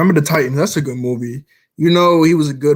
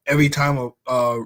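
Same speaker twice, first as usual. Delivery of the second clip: stuttering; 3 semitones lower than usual. Real, not acted. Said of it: "I'm stuttering".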